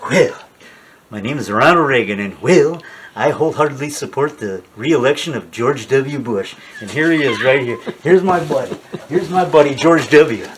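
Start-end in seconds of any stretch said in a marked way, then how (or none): 0.1-6.5 lightly voiced Reagan, a hint of a folksy president; a mild nod to Reagan's endorsement voice; Reagan impression. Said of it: "But I'm good at Reagan".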